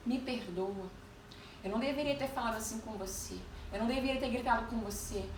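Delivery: soft, subdued imitation of a contrite boss; retold sheepish plea for forgiveness; ashamed apology. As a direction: apologise quietly, embarrassed. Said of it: "Com os olhos baixos e envergonhado".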